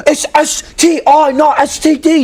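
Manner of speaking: mock a friend insisting on the right term; imitating an indignant correction. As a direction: spell out the letters like an indignant pedant. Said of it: "he's like".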